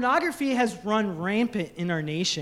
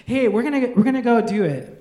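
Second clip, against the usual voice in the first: put-on giggly kid; 5 dB louder, faster than usual.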